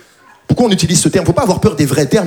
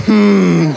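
restrained little squeezing hum; a held-in grunt of moderate effort; gentler squeeze grunt. Shown as a demonstration. Comedian showing how he did squeeze the baby, contained grunt. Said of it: "je l'ai serré genre".

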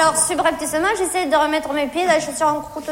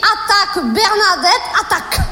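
higher-pitched pep talk to herself; self-urging; 4 semitones higher than usual. Retold or imitated. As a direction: urge yourself into the attack, voice raised. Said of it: "je me suis dit". (s'encourager d'une voix plus haute)

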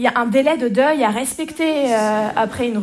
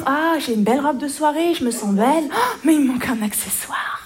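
higher-pitched sarcastic gushing; mock delight; 3 semitones higher than usual. Aunt imagining herself choosing evening accessories, sarcastically thrilled. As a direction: gush with fake delight.

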